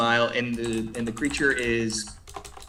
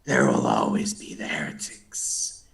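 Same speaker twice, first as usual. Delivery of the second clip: sneering zealot; 6 semitones higher, 9 dB louder than usual. Acted. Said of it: "he sneers and he goes".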